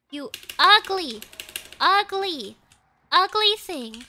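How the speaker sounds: exasperated gamer scolding; mock-angry insult. Insulting the chasing game opponent.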